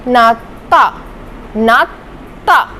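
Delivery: नाता drawn out, final t clear; slow pronunciation demo. Shown as a demonstration. Teacher drilling the t ending, slow. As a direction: say नाता slowly with t. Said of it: "इसकी sound त की आएगी".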